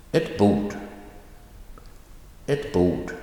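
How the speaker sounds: very brief ett, stressed falling bord; noun emphasized. Shown as a demonstration. Teacher repeating the article rule, stress on bord. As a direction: keep ett short and lean on bord. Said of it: "the noun is emphasized".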